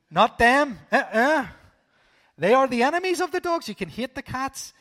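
loud, mock pulpit warning against cats; mock preacher. Preaching to the folks against cats, mock loud sermon. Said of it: "and I was preaching that".

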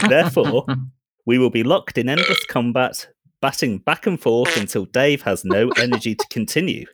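calm computer voice; robot voice. Acted. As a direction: speak like a ship AI. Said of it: "My robot voice?".

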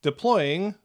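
slow, robotic machine voice, rising at the end; metallic voice. Acted. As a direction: announce it like a cold robot. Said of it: "metallic voice you hear right in front of you".

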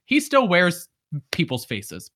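high, scoffing well-you-know-what; mock dismissive reply; sarcastic retort. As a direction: brush it off with sarcasm. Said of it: "And I was like".

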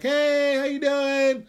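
loud, high, cheery yelled greeting; booming friendly hey; friendly shout. Shown as a demonstration. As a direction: call out a big happy hello across the room. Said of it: "not, like, shouting".

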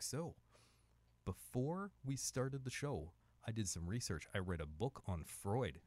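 imitated actress, slow and deliberate; Marina Sirtis. Actress telling a therapist about her research, lightly imitated. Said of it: "She's like".

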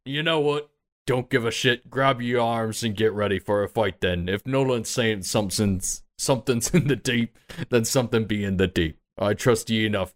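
lightly voiced pirate skipper; rally the crew as a salty captain; a hint of old-sea-dog captain giving orders; decisive sea captain. Game master playing the captain.

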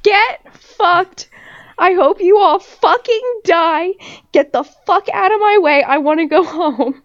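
hammed-up road-rage yelling; retold screaming. Retelling how she screamed at DC traffic, mock yelling. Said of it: "scream out the window".

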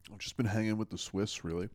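chewing while talking; mouth full. Real, not acted. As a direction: talk through a mouthful of cheese. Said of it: "My mouth is full of cheese".

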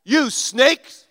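high, loud accusing shout; imitated yell. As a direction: yell at the crowd like an outraged prophet. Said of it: "he yells at them during the service".

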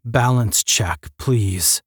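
slow, hollow and drained; empty voice. Acted. Sai asking the phone for his balance, slow and hollow. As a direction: say it numbly, nothing left in it. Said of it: "his voice as empty as his expression".

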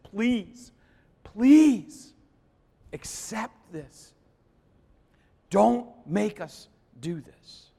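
high, slow, begging plea; tearful pleading. Retold or imitated. Agent begging the warlord to accept the deal, high and slow.

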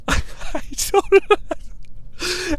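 high breathless giggle; helpless laugh. Real, not acted. Fan cracks up after his robot impression, laughing.

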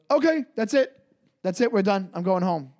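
lightly voiced cabbie calling it quits; cabbie refusing. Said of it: "And then he goes".

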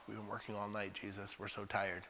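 too tired to argue; weary complaint. Retold or imitated. Fishermen telling Jesus they're exhausted, soft and weary.

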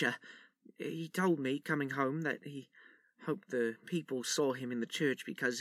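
quiet, tender telling; softly moved. Acted. Father tells of Tim's words.

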